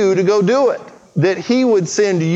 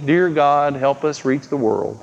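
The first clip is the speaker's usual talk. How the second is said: lukewarm prayer; 4 semitones lower, slower than usual. Pretend. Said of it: "It doesn't mean".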